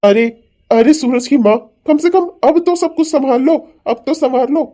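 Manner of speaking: husband pressing wife, exasperated and loud; exasperated scolding. Acted. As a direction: push her hard to take charge. Father scolds mother over family split.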